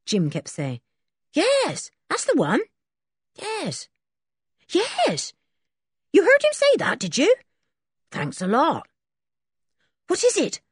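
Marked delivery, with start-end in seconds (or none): 1.3-8.9 high, eager lad on the phone; a lightly voiced eager boy; phone chatter in a higher voice; Jim on the phone. A narrator's reading. 10.1-10.6 quick, eager and higher; leaning in for news; eager question. A narrator's reading. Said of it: "asked Dick eagerly".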